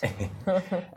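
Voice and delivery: a quick rising laugh at the question; short laugh. Real, not acted. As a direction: burst into a brief amused laugh.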